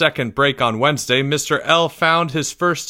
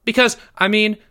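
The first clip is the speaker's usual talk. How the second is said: put-on high-pitched, anxious boy voice; hastily adding schoolboy; 9 semitones higher than usual. A narrator's reading. Pupil justifying himself to teacher, hasty high voice. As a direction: backpedal like a nervous pupil. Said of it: "Jeffrey added quickly".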